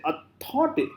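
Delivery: "authority" pushed hard on the tho; wrong early stress. Shown as a demonstration. Teacher showing what we never say, misplaced stress. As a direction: lean on "tho" in "authority", cut short. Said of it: "we never say".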